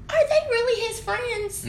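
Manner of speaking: very high, slow, thin questioning; retold wary doubt. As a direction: act out doubt in a drawn-out squeak. Wary of crowd at mansion, retold.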